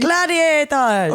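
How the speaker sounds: slow, stretched mock referee call; theatrical arena announcer; game-show referee. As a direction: announce the fighters with a long drawl. Answers the mock start call.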